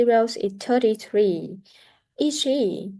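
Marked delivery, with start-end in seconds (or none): 2.2-2.9 short surprised question rising high at the end; surprised Is she with a high rise. Shown as a demonstration. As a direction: ask it in disbelief, rising. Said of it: "to show surprise".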